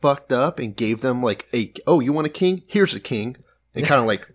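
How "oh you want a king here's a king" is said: mildly spiteful retort, raised at the start; mock spite. God grudgingly handing his people a king, mock spiteful. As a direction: lightly act out a spiteful giver. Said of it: "he kind of spitefully almost".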